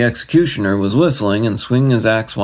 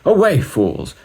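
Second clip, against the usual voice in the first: much higher furious cry; angry shout; 11 semitones higher than usual. Acted. King dismissing the magicians, much higher angry cry. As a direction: drive the fools away. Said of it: "he shouted".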